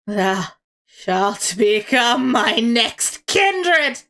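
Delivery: drawn-out, slow vampire threat; slow menacing fiend. Acted. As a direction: savour each word like a predator. The Blood Fiend claims its victim.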